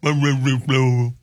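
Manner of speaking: Louisville mumbled as Luh-vull in a mock Kentucky accent. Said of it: "hillbilly accent".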